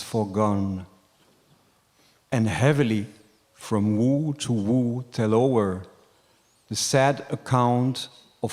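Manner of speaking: measured, declaimed poem reading with long pauses; sonnet recital. Acted. Reading Shakespeare's sonnet aloud to the teacher, poem recital. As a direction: recite it line by line, lingering on the stressed words.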